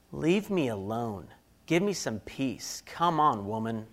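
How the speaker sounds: slow, low and worn out; weary plea. Retold or imitated. Husband in the car wanting his wife to stop, slow weary plea. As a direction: drag the words like a tired husband.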